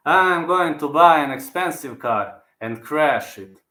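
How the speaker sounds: slow, drawn-out fighter's quote; lightly voiced impression at a slow pace; Jiri impression. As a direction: stretch the words out in character. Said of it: "My favorite Jiri quote".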